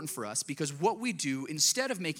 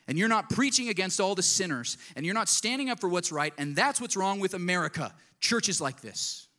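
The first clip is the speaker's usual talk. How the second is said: indignant rant; 2 semitones higher, 3 dB louder than usual. Retold or imitated. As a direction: ham up the angry church critic. Retold angry email from Chad.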